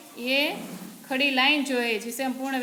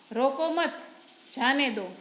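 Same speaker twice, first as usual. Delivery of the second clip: short pause between "रोको मत" and "जाने दो"; pause at the comma; slower than usual. Shown as a demonstration. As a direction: say "रोको मत", stop briefly, then let "जाने दो" fall. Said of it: "यहाँ पर थोड़ा रुकना है".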